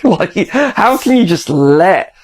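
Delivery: slow, laughing through the words; amused slow disbelief. Real, not acted. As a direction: laugh as you ask it. Laughing at friend's open windows.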